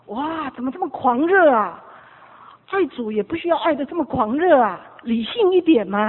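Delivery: mildly hammed-up critic's protest; mock disapproval. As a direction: object loudly, imitating a put-off sceptic. Voices critic of fanatical worship.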